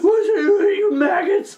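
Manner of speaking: high, loud barking insult; mock drill sergeant. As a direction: bark it like a cartoon drill sergeant.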